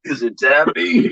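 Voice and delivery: Crazy Taxi voice. Pretend. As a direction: stretch it like an arcade announcer. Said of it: "He sound like Crazy Taxi".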